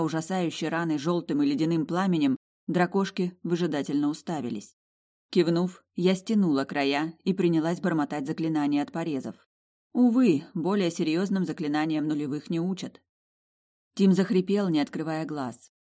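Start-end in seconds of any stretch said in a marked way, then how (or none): none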